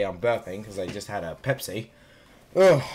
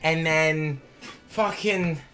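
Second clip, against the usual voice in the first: loud, higher ranting; mock angry rant; 6 semitones higher, 5 dB louder, slower than usual. Real, not acted. Rant at chat about luck.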